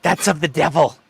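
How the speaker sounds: a hint of a disapproving old church lady; lightly voiced scandalized grandma; Bible-thumping grandma. Host imitating a friend's grandma scolding, lightly voiced. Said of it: "like the mother from Waterboy".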